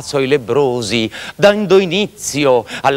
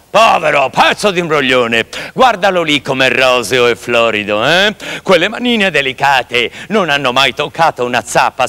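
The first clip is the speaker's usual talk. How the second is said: angry fisherman; 2 semitones lower than usual. Acted. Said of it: "si arrabbiò moltissimo ... gli gridò".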